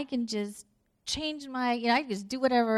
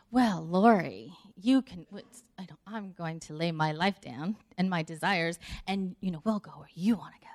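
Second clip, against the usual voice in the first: lightly voiced martyr husband; self-sacrificing husband; 5 semitones lower than usual. Husband lays his desires down for his wife, mock-solemn.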